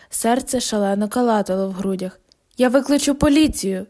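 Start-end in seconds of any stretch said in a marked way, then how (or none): 2.6-3.8 loud, raised warning through the door; shouted threat. Acted. Woken at night, she shouts through the door. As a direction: shout it at the intruder outside. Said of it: "закричала я".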